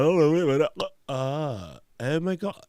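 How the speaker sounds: high, excited "oh my God"; mock shocked discovery. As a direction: act out a sudden realization. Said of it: "they're like".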